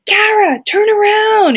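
mock shout from up in the bleachers; imitating a dad yelling to his daughter; dad calling out. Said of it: "you know, from up in the stands".

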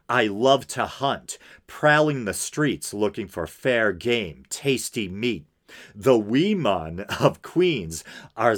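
deliberate, emphatic reading aloud; dramatic letter reading. Acted. Podcaster reading a killer's letter to listeners, dramatic reading. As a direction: read it out as a formal statement.

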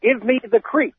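put-on reading a quote in a light Boston accent; hint of a wicked Boston accent. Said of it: "break out my wicked Boston accent".

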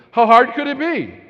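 loud, slow, smug; mock overconfident dad; cocky scoff. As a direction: boast like it's nothing. Cocky husband.

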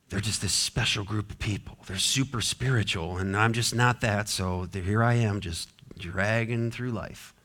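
mild defeated shrug in the voice; resigned self-excuse. Acted. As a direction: mumble it modestly, as if resigned to plodding along. Voicing a self-doubting ordinary believer.

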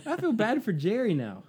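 high, giggling through the words; laughing. Real, not acted. Host cracking up over the Jerry name, laughing. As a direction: laugh while you say it.

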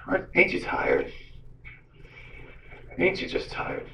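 soft, breath-only, weary plea; hushed film quote. Retold or imitated. Abilene turns to the evil lady, hushed acted question. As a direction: imitate a quiet, confronting question, almost whispered.

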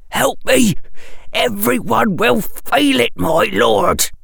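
high, urgent, frightened plea; whispered fear. A narrator's reading. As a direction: beg in panic. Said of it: "in a terrified whisper".

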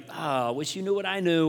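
softly condescending sigh, acted out; quiet, superior put-on regret; morally superior. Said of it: "feel morally superior to you, like".

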